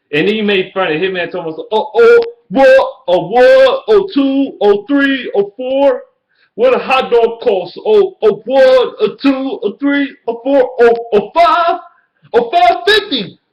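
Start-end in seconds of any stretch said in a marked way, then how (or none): 1.7-13.4 squeaky high mock counting, hammed up. Mocking a Bears fan's video bit in a squeaky high voice. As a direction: mimic him like a cartoon caller, way up high.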